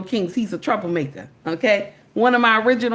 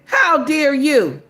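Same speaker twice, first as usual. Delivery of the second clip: higher, slow mock outrage; mock indignation; 5 semitones higher, 4 dB louder, slower than usual. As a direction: draw it out like an offended woman. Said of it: "They mad, baby. Mm. They said".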